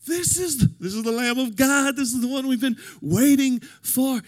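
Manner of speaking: loud, high prophet's announcement; John the Baptist proclaiming. Retold or imitated. John the Baptist announcing Jesus to the crowd, loud and high. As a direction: cry it out to the crowd. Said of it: "He says".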